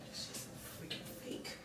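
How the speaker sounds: very soft, barely voiced aside; quiet self-critique. Real, not acted. Vlogger criticising her own fake intro, quiet aside. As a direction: drop right down, almost under your breath.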